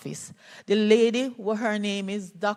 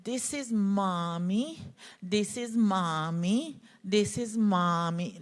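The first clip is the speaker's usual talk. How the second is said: put-on slow, soft child repeating himself; lightly voiced little boy, hushed; small child's voice; 4 dB quieter, slower than usual. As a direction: let it come out small and slow. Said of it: "He said".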